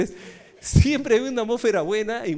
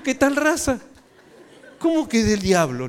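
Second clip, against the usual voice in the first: raised, louder comic indignation; mock outrage; 6 semitones higher, 5 dB louder than usual. Pastor retelling his reply to the brother, mock outraged. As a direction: protest loudly with laughter close behind.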